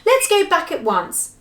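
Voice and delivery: high, loud disgusted protest; indignant, revolted outburst. Acted. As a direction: complain with open distaste. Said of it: "said Joe in disgust".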